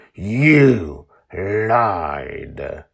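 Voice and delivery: cold accusing voice. Acted. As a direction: hurl the accusation. Joy confronts the Guardian.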